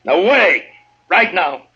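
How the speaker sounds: curt angry dismissal; angry order. Acted. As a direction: drive her out the door with force. Marshal orders Francie out.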